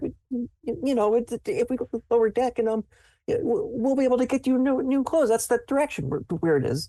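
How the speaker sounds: frightened stammering. A frightened man answers the sir he is leading, scared stuttering. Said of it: "You can just tell it's like stuttering".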